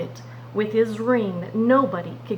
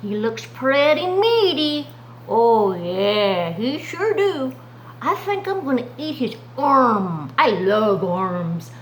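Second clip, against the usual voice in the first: lightly voiced greedy lion, slow; lion eyeing Daniel hungrily; hungry lion; slower than usual. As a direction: savor the meal like a lion. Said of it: "they might be saying something like this".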